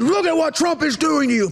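high hammed-up accusing voice; mock alarm in a put-on voice; mock accuser. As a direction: shift into a high cartoon finger-pointer. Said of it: "They're saying".

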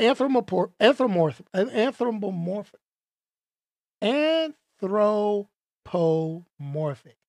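"anthropomorphic" drawn out syllable by syllable; labored, stretched pronunciation of a hard word; slow sounding-out. Real, not acted. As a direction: sound out "anthropomorphic" very slowly, piece by piece. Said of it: "that word is hard to get out".

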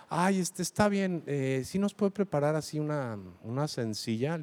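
put-on embarrassed girlfriend. Embarrassed girlfriend orders from the waiter, speaking softly and timidly. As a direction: ask timidly, a little ashamed. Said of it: "así como apenada dice".

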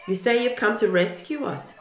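loud, accusing jeer; mocking shout. A narrator's reading. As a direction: call it out like a scornful crowd. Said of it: "people shouted".

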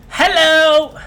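high, loud announcer catchphrase; Jack Armstrong. Acted. Co-host mimics the Raptors announcer, high loud call. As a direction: belt out a mock commentator greeting. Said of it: "Jack, Jack Armstrong?".

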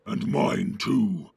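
loud, slow orc commander; deep, drawn-out orc voice. A narrator's reading. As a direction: weigh in forcefully as a growling orc. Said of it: "said the deep voice".

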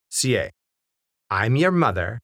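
plain reading voice

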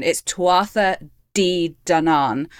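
slow, deliberate "Tuatha De Danann" sounded out; hesitant beginner saying "Tuatha De Danann"; careful Irish name. Shown as a demonstration. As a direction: spell out "Tuatha De Danann" slowly in a learner's Irish. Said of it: "I'm going to absolutely massacre this pronunciation".

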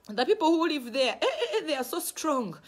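put-on child's report broken by laughter; laughing report. Child telling Daddy about the strong neighbours, laughing. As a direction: laugh through the fearful news.

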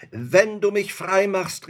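high, loud pleading offer; spirit calling out. A narrator's reading. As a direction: bargain urgently as a trapped spirit. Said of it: "rief der Geist".

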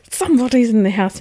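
urgent warning. Retold or imitated. Woman warning sleepy Will of an intruder, hurried and urgent. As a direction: blurt it out urgently, acted.

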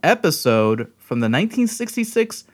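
a little tipsy, tripping on words; tipsy host stumbling over words. Real, not acted. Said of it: "You drunk?".

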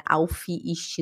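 "Auf, ist" said as "aufi, isti"; learner's mispronunciation. Retold or imitated. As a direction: add a Brazilian i to the ends of "Auf, ist". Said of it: "Eu também falava muito assim". (pronúncia errada, com i no fim)

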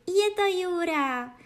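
princess exclaiming. A narrator's reading. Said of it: "zvolala princezna".

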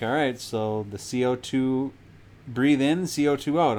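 slow, even nurse instructions, a touch put on; imitating the nurse. Nurse coaching the patient under the mask, slow and even. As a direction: talk him through breathing like a nurse.

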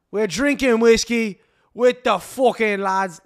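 high, loud, hammed-up Irish accent; Conor McGregor Irish impression. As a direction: go way up and brag like a rowdy Irish fighter. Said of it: "that was a little British".

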